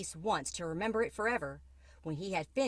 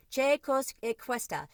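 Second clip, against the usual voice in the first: higher, surprised Italian mother; a startled Italian mama asks; Mamma speaking Italian; 7 semitones higher, 4 dB louder than usual. A narrator's reading. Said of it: "she said in Italian".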